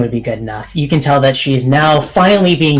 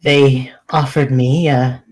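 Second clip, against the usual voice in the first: resigned confession. Acted. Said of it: "sighs and says".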